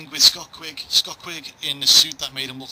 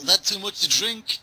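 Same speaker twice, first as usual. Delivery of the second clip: higher, slow mock-drunk voice; wobbly drunk; 6 semitones higher than usual. Host mimics the staggering boxer, slow mock-drunk voice. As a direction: imitate someone reeling from drink. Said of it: "He was like".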